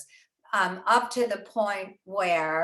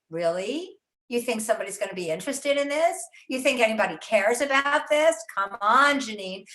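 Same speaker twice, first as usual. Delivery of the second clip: lightly voiced nagging inner critic; crazy aunt in the attic. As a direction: needle yourself lightly with sceptical questions. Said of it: "that crazy aunt in the attic".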